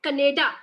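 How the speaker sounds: Canada tried out as "kuh-NAY-ta"; Punjabi pronunciation. Shown as a demonstration. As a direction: try the Punjabi way of saying Canada, stressed on "nay". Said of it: "कैसे pronounce करते हैं".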